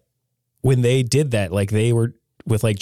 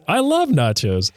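higher, slow, gushing Homer; 7 semitones higher than usual. Retold or imitated. Homer telling Ford about nachos, high and gushing. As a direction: draw out the love like a happy Homer. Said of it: "Homer says".

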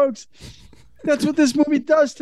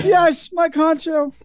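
drawn out; 4 semitones higher, slower than usual. Retold or imitated. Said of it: "I'm like".

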